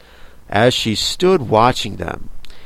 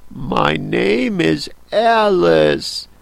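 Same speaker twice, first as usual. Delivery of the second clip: put-on polite young girl; 6 semitones higher, slower than usual. Alice answers the Queen.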